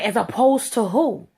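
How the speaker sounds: slow, loud, greasy "As opposed to who?"; greasy sneer. Retold or imitated. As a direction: drag it out with a smug sneer. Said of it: "real greasy".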